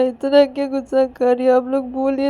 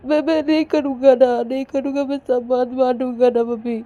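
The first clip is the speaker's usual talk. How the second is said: high, louder crying complaint with stammered repeats; acted tearful pleading; 6 semitones higher, 5 dB louder than usual. Ananya begging mothers to talk Payal round, tearful. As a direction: plead through sobs, whining to the grown-ups. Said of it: "रोए जा रही थी बहुत ही।".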